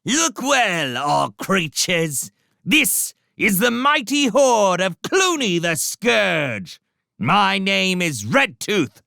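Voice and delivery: high, slow, loud rat's boast; swaggering rat herald. Acted. Redtooth announcing Clooney's horde to the abbey, high swaggering shout. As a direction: swagger and bellow it up at the walls. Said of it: "called back up at the walls".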